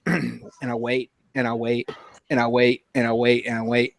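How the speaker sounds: low, repetitive, evenly spaced phrases. Retold or imitated. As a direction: repeat it as if time drags. Repeats to act out long wait.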